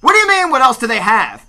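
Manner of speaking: high, shouted disbelief; loud indignant comic rant; exasperated outburst. Acted. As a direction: fire the question back, incredulous. Ranting back at the imagined customer.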